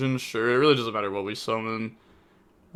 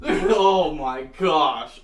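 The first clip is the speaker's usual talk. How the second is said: laughing in disbelief; 2 semitones higher, much slower than usual. Real, not acted. Laughs after outburst.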